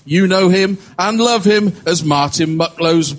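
building to a big shouted name; announcer intro. Acted. Host announcing the guest, booming up to the name.

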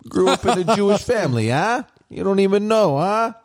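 high-pitched mock New York Jewish accent; attempted Jewish accent. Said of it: "do the Jewish, like, accent".

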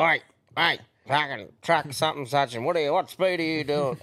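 lightly voiced mock boss on the radio; a hint of the cranky manager; imitating the boss. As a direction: friend quoting the mine manager. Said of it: "when he says the boss".

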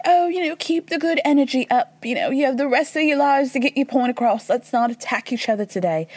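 high-pitched imitation of a woman giving advice; Lisa. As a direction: start high, settle as you go. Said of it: "And Lisa's like".

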